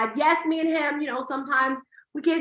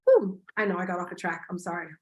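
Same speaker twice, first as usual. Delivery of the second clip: choked up; 6 semitones lower, faster than usual. Real, not acted. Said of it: "I'm not gonna get emotional".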